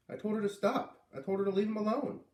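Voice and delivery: put-on high, indignant girl's voice; a child defending her brother; defensive girl. Girl explaining to Dad.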